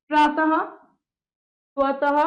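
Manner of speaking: प्रातः, स्वतः each ending in an audible "ha"; visarga as "ha". Shown as a demonstration. Teacher giving visarga examples, final "ha" sounded. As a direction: finish प्रातः and स्वतः on a clear h syllable. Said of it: "इसका उच्चारण ह की भांति किया जाता है".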